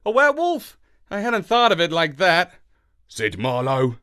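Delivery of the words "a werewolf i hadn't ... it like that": dog man voice. A narrator's reading. Marlowe voice.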